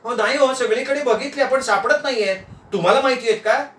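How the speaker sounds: high-pitched worried wife; plaintive wifely voice; flustered wife. Acted. Wife cannot find the chocolates.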